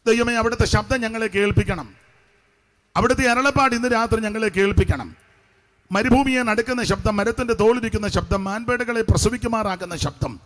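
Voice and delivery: mimicked public prayer, phrases rolling one after another; imitation of fervent out-loud praying; imitated loud prayer. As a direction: pray aloud as a convention preacher would. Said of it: "ഉച്ചൈസ്തരം പ്രാർത്ഥിക്കുന്ന".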